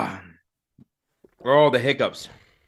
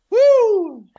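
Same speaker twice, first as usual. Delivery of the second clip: high pained whoop; 7 dB louder than usual. Real, not acted. Burning from hot sauce.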